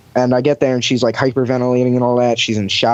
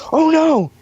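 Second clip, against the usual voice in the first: high-pitched mock "oh no" outcry; drawn-out, high cry of dismay; retold cry of alarm. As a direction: imitate a woman crying out, pitched way up. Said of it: "I hear the woman go".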